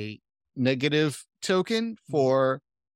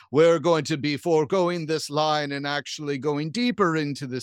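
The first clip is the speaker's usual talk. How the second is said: flat echoey pa page. Acted. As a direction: announce it like a ship PA. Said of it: "over the intercom the voice of the captain".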